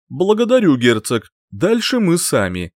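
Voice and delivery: cool dismissal from a mage; archmage voice. Acted.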